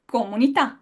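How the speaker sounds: comunità with a dry k; Italian k, no air. Shown as a demonstration. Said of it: "what about community".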